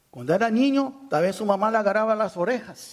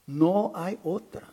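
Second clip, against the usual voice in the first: slow emphatic repeat; slower than usual. Real, not acted.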